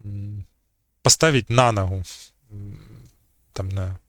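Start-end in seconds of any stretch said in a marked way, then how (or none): 1.0-2.0 loud stress on НА in «на ногу»; stress on the preposition. Shown as a demonstration. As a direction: punch НА, leave ногу unstressed. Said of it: "І таких, е, прикладів може бути багато".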